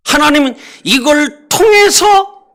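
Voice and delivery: preacher shouting God's work; preaching shout. Real, not acted. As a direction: proclaim it to the congregation. Preaching climax.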